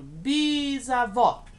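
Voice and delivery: "Bisavó" drawn out, the last syllable vó long and strong; slowed stressed word. Shown as a demonstration. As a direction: say "Bisavó" slowly, landing hard on vó. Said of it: "Terminou em O". ("Bisavó" devagar, com força no vó)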